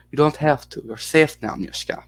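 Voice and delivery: lightly put-on Russian accent; hint of a Russian-accented interpreter. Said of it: "weren't gonna do the accent".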